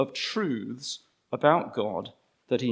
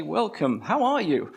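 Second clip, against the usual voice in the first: cheery welcome; 2 semitones higher than usual. Pretend. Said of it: "big smile on your face".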